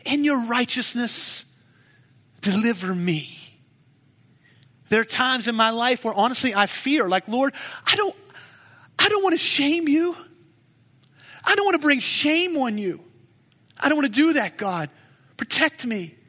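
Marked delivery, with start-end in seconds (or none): 4.9-16.2 urgent high plea to God; pleading prayer. Pretend. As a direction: beg God, rising and urgent. Preacher voicing own plea to God.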